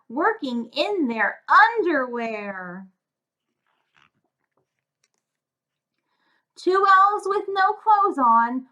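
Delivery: lilting sing-song rhyme for a picture book; cheerful storybook narration; reading to children. A narrator's reading. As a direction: read the rhymes aloud with a bouncy beat for little ones. Rhyming storybook read to children.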